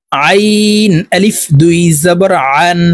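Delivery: slow আইন and আন squeezed from mid-throat; pressed Ayn. Shown as a demonstration. Teacher modelling the letter, pressed throaty আইন and আন. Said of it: "হলকের মধ্যখান থেকে চাপ দিয়ে".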